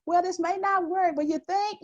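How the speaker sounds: high, drawn-out uptalk ending in a questioning "think?"; tentative. Shown as a demonstration. Showing women how not to pitch an idea, tentative rise on "think". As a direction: lift "think" as if asking permission. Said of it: "You can't be tentative".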